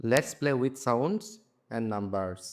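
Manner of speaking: very slow, word by word; slow reading. Shown as a demonstration. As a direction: read each word out slowly for pupils. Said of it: "teacher reads textbook title aloud". (খুব ধীরে, শব্দে শব্দে পড়া)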